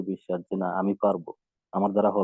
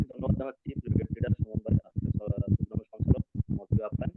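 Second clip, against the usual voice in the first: choppy call audio dropping words; radio breaking up. Real, not acted. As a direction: voice cutting in and out. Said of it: "আপনার কথা কেটে কেটে আসছে".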